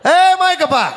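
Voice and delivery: high, loud granny wail; old woman's cry. Retold or imitated. Old granny cries out to the driver.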